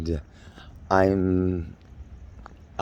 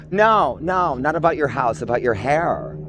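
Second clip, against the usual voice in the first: uptight Beverly Hills snob; 3 semitones higher than usual. Acted. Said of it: "I'm this uptight Beverly Hills Queenie bitch".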